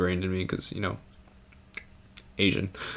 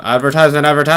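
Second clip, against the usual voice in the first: high, loud squeal rising out of the word; sudden loud squealing burst; mock squeal; 7 semitones higher, 11 dB louder, faster than usual. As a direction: squeal it out, louder and higher. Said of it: "we're kinda squealing with intentions".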